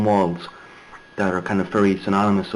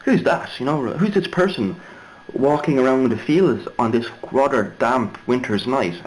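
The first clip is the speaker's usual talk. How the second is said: puzzled; 3 semitones higher than usual. Retold or imitated. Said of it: "No, we're like".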